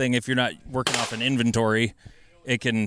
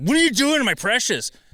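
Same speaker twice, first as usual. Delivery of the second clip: put-on, very high, frantic freaked-out cry; 11 semitones higher, 4 dB louder than usual. Retelling an own past reaction when stages weren't perfect: imitating own freak-out. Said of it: "I freaked out about it".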